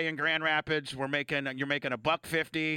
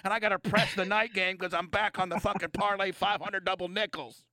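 imitating Artie's bookie talk; 3 semitones higher than usual. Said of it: "No, but this is how you talk".

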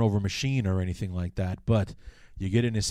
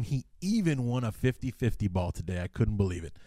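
sarcastic; 4 dB quieter than usual. Real, not acted. Fan teasing a receiver over his rare contested catch, mildly sarcastic. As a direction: feign amazement with a touch of sarcasm. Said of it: "I hate to sound so sarcastic".

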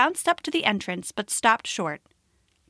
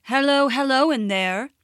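calling out; 2 semitones higher, 3 dB louder than usual. Acted. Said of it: "the leopard called into the cave".

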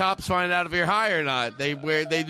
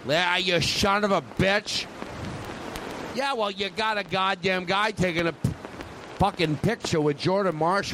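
lightly voiced cursing Boston president; John F. Kennedy. President complaining about a furniture picture, lightly put-on Boston voice. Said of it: "John F. Kennedy".

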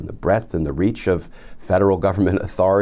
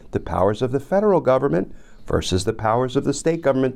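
mock-reassuring, building to higher-pitched taunting; sarcastic; 4 semitones higher than usual. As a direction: tease Jim, rising higher as you go. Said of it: "he said sarcastically".

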